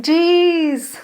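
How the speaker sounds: startled mock scolding of the spider; startled exclamation. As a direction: tease the spider, half shocked. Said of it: "And I was like".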